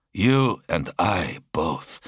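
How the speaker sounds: slow, teeth clenched; through clenched teeth. Acted. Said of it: "his teeth clenched".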